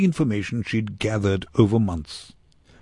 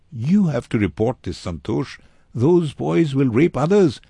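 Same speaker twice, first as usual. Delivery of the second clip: louder, higher, earnest urging; firm, emphatic appeal with raised pitch; urgent insistence; 7 semitones higher, 6 dB louder than usual. A narrator's reading. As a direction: press the frightened boy to act. Teresa urges boy to report.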